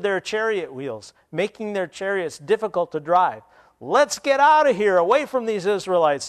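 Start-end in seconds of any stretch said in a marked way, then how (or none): 3.8-6.3 higher, louder panicked cry to flee; shouted. Acted. Egyptian soldiers shouting to retreat, panicked shout. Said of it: "the Egyptians shouted".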